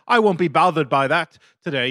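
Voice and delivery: mock British accent. British kid brushing off a bully, in British accent. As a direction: imitate a Brit politely refusing, in accent. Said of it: "if you were, like, British".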